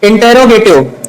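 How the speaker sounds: teacher modelling every syllable of इंटेरोगेटिव; full-syllable pronunciation. Shown as a demonstration. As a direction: say इंटेरोगेटिव as "in-te-ro-ge-tiv". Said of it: "इसको इंट्रोगेटिव नहीं पढ़ते हैं".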